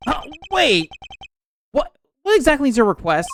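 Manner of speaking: high, urgent call to stop; flustered outburst, pitched right up; acted startled protest. Lawyer stops vendor to ask his request, startled.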